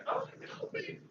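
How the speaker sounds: very high, soft little plea; Mel. Acted. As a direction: squeak out a tiny cry for help. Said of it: "there's Mel saying".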